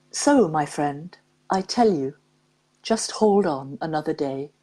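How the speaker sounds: measured, unhurried poem recital; poem reading. Acted. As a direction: read it like a heartfelt verse to listeners. Reads a poem aloud.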